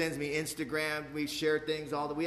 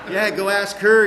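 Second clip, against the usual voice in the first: laughing; 3 semitones higher, 13 dB louder than usual. Real, not acted. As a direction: repeat it while still laughing. Laughing repeat of own line.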